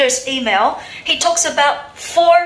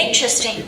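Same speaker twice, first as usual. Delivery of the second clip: "Interesting" with the beat on IN; stress on first syllable; faster than usual. Shown as a demonstration. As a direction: model "Interesting", stressing IN and falling away. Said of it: "So where is the stress?".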